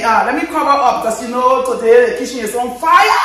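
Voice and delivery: loud, excited announcement; excited shout. Real, not acted. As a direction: hype it up loudly. Excited shout about kitchen.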